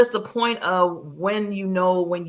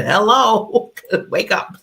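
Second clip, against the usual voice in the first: laughing quote; 5 dB louder, slower than usual. Retold or imitated. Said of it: "You said".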